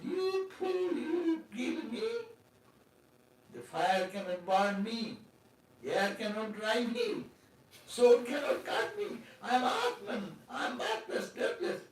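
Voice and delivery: high, laughing scorn that slows to a calm declaration; a retold sage laughing off the threat; laughing defiance. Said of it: "the sadhu burst into laughter".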